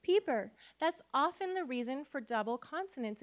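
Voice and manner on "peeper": Peeper with a long ee in the first syllable; long vowel. Shown as a demonstration. Teacher showing a one-P spelling, Peeper with long ee. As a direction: open first syllable in Peeper, saying pee-per. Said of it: "if we only had one P".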